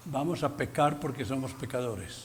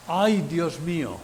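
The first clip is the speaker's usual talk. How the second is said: a throwaway "Ay, Dios mío" tossed off lightly; casual exclamation; 2 semitones higher, 4 dB louder than usual. Retold or imitated. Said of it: "Alguien le dice". (exclamación casual "Ay, Dios mío")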